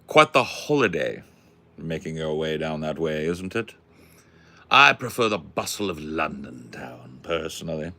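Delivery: put-on mannered London-gentleman English accent. Musing aloud about London life, put-on English accent. Puts on genteel London character.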